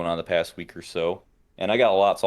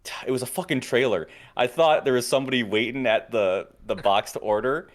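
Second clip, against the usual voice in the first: lightly voiced annoyed worker, pitched a bit higher; retold drive-thru worker; 4 semitones higher than usual. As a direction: quote the irritated guy casually. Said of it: "He's like".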